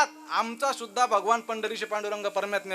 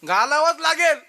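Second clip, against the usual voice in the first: wife insisting; 3 semitones higher, 3 dB louder than usual. Acted. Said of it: "म्हणली".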